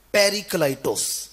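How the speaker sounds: slow, deliberate پیریکلائٹوس ending in "-tos"; first pronunciation. Shown as a demonstration. Preacher teaching the first Greek pronunciation, پیریکلائٹوس said slowly as "peri-klai-tos". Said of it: "پہلا تلفظ ہے".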